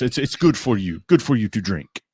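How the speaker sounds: coaxing imitation of an Italian restaurateur; bad Italian accent. Owner urging the guest to drink, mock Italian accent. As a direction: lilt it in a clumsy Italian accent. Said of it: "this is gonna be a horrible accent".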